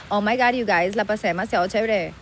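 put-on Spanglish Miami accent. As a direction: play a bilingual Miami girl. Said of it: "El acento Miami". (acento de Miami en spanglish)

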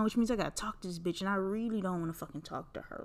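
annoyed muttering to herself; grumbling under breath. Retold or imitated. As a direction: mutter it like you dread the chat. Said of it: "So I'm like".

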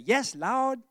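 "Yes, Lord" in a light Southern drawl; a hint of a Southern "Yes, Lord"; southern accent. Shown as a demonstration. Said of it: "You gotta get your southern accent when you do that".

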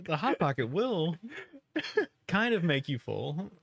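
slow, lightly voiced ad read; pharmaceutical ad. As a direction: read it like a drug ad disclaimer. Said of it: "their commercial reads like a drug commercial".

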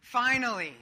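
big, emphatic sigh-of-relief exclamation; long-awaited relief. Acted. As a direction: burst out as if it's over at last. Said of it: "the word that many of you are feeling".

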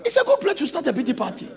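fast, laughing mockery; mocking laugh. Shown as a demonstration. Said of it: "repeated with laugh".

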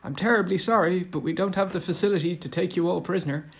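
mock-formal officer quote, apologetic; clipped British officer. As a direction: play the terribly polite British para officer. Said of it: "that British para officer".

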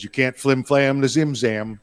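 slow, punchy catchphrase delivery; a hint of a proud boast; quoting Zim Zam's slogan, lightly voiced; mock catchphrase boast. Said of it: "he says".

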